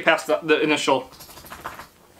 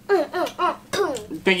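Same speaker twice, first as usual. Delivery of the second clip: laughing; 10 semitones higher, 4 dB quieter than usual. Real, not acted. Laughing through the outro.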